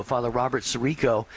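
ordinary delivery

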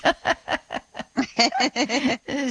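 a run of easy giggles; amused laugh. Real, not acted. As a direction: laugh it off after your own joke. Laughs at own joke.

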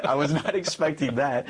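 amused, still can't believe it; laughing disbelief. Real, not acted. Priest laughing while telling the host about his mom, laughing.

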